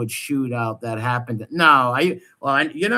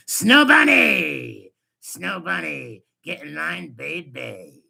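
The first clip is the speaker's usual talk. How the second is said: mock biker call; 3 dB louder, slower than usual. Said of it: "and he says".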